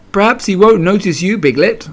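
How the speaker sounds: encouraging. A narrator's reading. Pooh comforting frightened Piglet, encouraging. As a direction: lift the pitch to cheer a friend up. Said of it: "said Pooh encouragingly".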